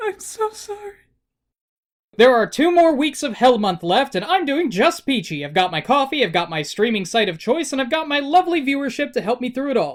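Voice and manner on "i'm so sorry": very high, hushed, tear-choked weeping and sobbing. Video host interrupts the intro with a sobbing apology. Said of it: "(sobbing continues)".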